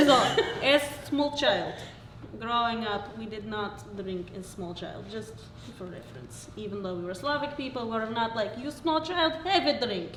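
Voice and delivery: put-on light Slovak accent; a hint of a Slovak accent. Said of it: "Slovak accent".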